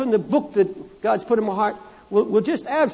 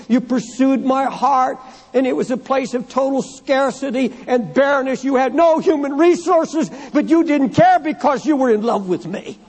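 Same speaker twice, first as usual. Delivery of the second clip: raised, insistent pulpit delivery; impassioned preaching; 4 semitones higher than usual. Acted. Preacher voicing God to the bride who loved him, impassioned preaching. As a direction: preach it with rising pitch and force.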